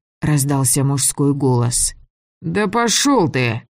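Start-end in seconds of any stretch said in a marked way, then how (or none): 2.4-3.7 put-on slow, rasped-out drunk snarl; wheezing snarl. A narrator's reading. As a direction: croak it out, drunk and rough. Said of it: "прохрипел державший меня".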